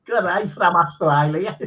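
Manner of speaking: badly imitated Australian accent; butchered Australian accent. Teasing a botched greeting from Australia, butchered Australian accent. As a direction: put on a clumsy Australian accent. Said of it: "Butchered the accent".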